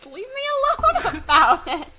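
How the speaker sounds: high, laughing plea to be left alone; laughing protest. Real, not acted. Teased, protests while laughing.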